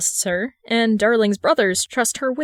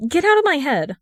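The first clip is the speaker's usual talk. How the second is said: higher, louder demand; 6 semitones higher, 3 dB louder than usual. A narrator's reading. Darling demanding the wizard leave his mind. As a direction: order the voice out. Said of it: "he demands".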